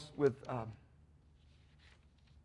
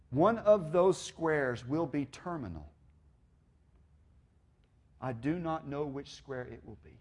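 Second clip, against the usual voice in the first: solemn reading. Real, not acted. Preacher reading on growing older and death, solemn reading. Reads essay's solemn ending.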